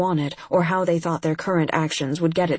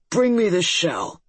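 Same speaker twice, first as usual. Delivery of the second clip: croaking frog lord. Acted. Fomor commands servants.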